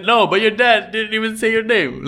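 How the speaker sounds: high, indignant wife's protest; mock-outraged Daisy. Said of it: "And like".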